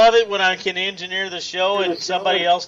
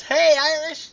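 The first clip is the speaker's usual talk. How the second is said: relayed greeting; 9 semitones higher, slower than usual. Retold or imitated. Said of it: "Leanne says".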